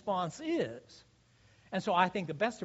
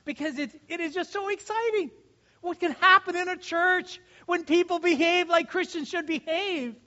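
higher-pitched, thrilled preaching; excited; 8 semitones higher, 5 dB louder than usual. Real, not acted. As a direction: let excitement push the voice up high. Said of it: "I get so excited".

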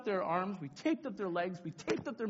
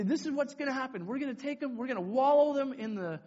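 raised, higher proclaiming voice; announcing to crowd; 5 semitones higher, 6 dB louder than usual. Retold or imitated. Leader with megaphone to whole camp, raised announcement.

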